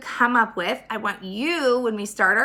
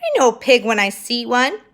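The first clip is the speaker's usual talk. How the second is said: indignant insistence; 3 semitones higher, 5 dB louder than usual. Acted. Eugenia insists loudly.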